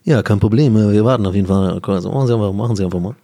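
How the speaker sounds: casting director voice. Acted. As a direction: drop back into the jury man's voice. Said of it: "ich hab die Stimme von dem Casting-Director vergessen".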